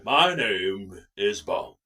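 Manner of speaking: very low, slow, loud Bond introduction; Roger Moore impression. Answering co-host's request, exaggerated deep Bond impression. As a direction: overdo a ponderous, deep old-actor Bond. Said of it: "James Bond in Roger".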